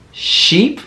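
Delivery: sheep said after the Sh, rising; modelling sheep for kids; sounded-out word. Shown as a demonstration. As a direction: finish sheep with a lift. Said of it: "Can you say sheep?".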